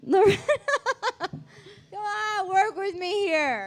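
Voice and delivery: high laughing whine; laughing plea. Real, not acted. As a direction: beg through laughter. Pleading partner, laughing.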